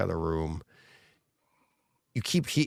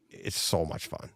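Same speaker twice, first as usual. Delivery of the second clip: breathy near-whisper, lower and softer, slowed; hushed delight; 6 semitones lower, 8 dB quieter than usual. Real, not acted. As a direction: savor it under your breath. Savoring the fun, repeated.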